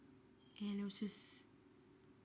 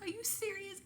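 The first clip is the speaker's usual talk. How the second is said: stunned disbelief; 9 semitones higher than usual. Retold or imitated. Hearing she didn't make it.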